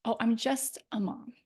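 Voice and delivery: self-diminishing. Shown as a demonstration. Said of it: "We often water down our message".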